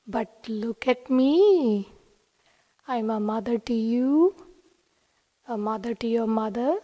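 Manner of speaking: lightly voiced tender guru, lingering on every rising line; very sweet. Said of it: "Swami very sweetly said".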